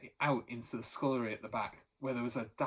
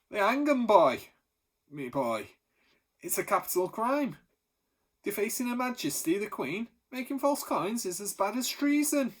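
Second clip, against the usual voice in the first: louder and higher, relishing it; dramatic warning; 8 semitones higher, 6 dB louder than usual. A narrator's reading. Baker warning the boy about forgers, loud and dramatic. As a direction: ham up the threat of the gallows.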